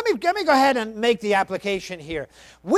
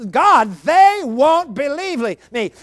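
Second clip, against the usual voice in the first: slow, louder, flat refusal; emphatic refusal; 4 semitones higher, 5 dB louder than usual. Retold or imitated. Moses emphatically refuses God, in an emphatic, slower, louder voice. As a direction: insist it won't happen. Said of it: "outright saying emphatically".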